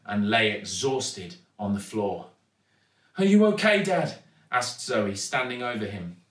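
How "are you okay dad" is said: high, raised, concerned question; concerned little girl. A narrator's reading. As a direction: check on your exhausted father. Girl checks on exhausted dad.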